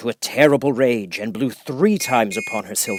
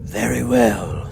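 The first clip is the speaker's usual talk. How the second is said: wolf; much slower than usual. Acted. Wolf obeys the witch.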